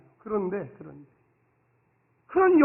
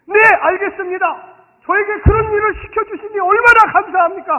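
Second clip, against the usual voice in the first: joyful reply; 9 semitones higher, 11 dB louder than usual. Pretend. Husband answering his wife's request with hammed-up joy. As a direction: answer like the happiest servant.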